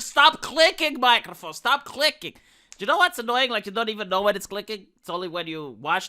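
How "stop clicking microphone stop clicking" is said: scolding the mic. Retold or imitated. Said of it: "I said".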